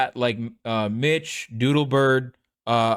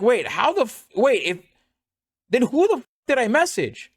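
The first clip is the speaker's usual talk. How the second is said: higher, bewildered retold blurts; retold panic; 9 semitones higher than usual. Streamer retelling the mix-up over a messaged account, baffled panic. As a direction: act out your baffled reaction, pitched up.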